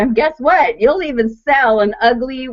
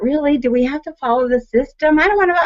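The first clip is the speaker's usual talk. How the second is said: rebel whine; 7 semitones higher, faster than usual. Retold or imitated. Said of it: "I'm kind of like a rebel".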